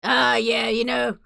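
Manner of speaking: mock-casual shrug of a voice; nonchalant. Mocking the inspector's shrug, mildly nonchalant. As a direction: toss it off like it's nothing. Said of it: "Gregson's so nonchalant about this".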